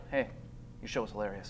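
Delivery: low, very quiet deadpan praise; hushed compliment from someone who never laughed; unamused fan. Retold or imitated.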